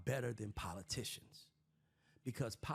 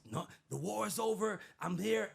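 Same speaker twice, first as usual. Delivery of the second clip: higher, proud mock announcement; mock Trump tweet; 8 semitones higher than usual. Host mimics Trump declaring the war over, higher. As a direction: announce it like a smug president. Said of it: "So Trump tweets".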